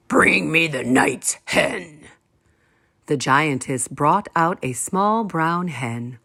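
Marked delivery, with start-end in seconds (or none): 0.1-2.1 slow, lightly voiced giant; a hint of a demanding giant. A narrator's reading. Giant ordering his wife, lightly voiced. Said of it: "he said".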